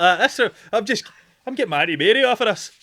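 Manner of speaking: loud, high, amused delivery; talking through laughter. Real, not acted. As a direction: push the joke out while laughing. Riffing while cracking up.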